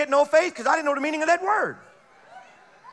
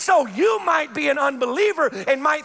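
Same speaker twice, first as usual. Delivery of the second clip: full-force preaching; 3 semitones higher than usual. Acted. Preacher testifying to the unbeliever, full-force preaching. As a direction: preach it out, building up.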